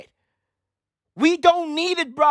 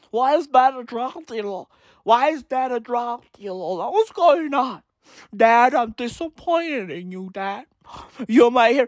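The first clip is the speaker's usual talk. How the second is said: mock imitation of an annoying son; lightly voiced complaining TV teenager; mocking Walter White's son; 2 semitones lower than usual. Son confronting his dad over drug dealing, mocking impression. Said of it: "Walter White's son".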